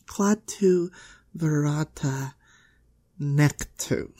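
measured, deliberate incantation; spell recitation. Acted. Girl casting spell from library book, deliberate. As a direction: recite the strange words in one careful go. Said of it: "say them, like, all at once".

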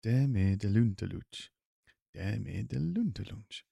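slow, drawn-out German line; German accent trial. Shown as a demonstration. Actor retrying the silly German line, slow German accent.

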